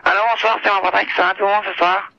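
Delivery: loud singer impression greeting the audience. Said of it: "Pour te faire un chanteur". (imitation de chanteur saluant son public, voix forte)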